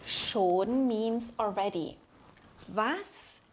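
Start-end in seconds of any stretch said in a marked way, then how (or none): 2.7-3.4 slow example sentence. Shown as a demonstration. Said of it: "Here is an example".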